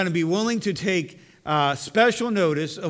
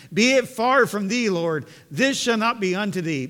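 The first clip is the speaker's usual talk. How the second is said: higher and louder scripture rebuke; rebuking; 5 semitones higher, 5 dB louder than usual. Acted. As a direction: Peter scolding his master, raised voice. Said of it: "began to rebuke him".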